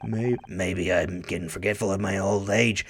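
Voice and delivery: low gravelly gruff detective. Acted. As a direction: growl it like a weary old cop. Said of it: "my gravelly voice".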